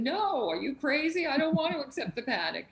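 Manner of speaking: high, loud, fast protest; mock-indignant retort; retold outburst. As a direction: throw back the idea as absurd. Retelling refusing friend's advice.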